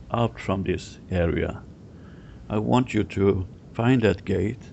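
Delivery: phrase-by-phrase guiding with pauses; guided visualisation. Real, not acted. Guide sending client to find a gate, guided visualisation. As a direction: give each step, then leave room to picture it.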